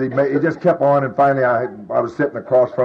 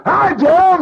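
a sudden high blast of a greeting; greeting heard as a shrill loud jolt; jarring shout; 5 dB louder than usual. Retold or imitated. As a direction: make the greeting hit like a shock to raw nerves. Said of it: "what I felt like was".

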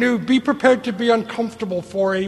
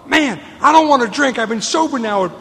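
frustrated plea; 3 semitones higher than usual. Retold or imitated. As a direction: stammer it out, desperate and fed up. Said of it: "I come to you and I say to you".

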